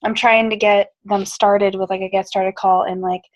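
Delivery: hoarse, worn-out voice. Real, not acted. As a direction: talk through a voice that's almost gone. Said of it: "my voice is gone".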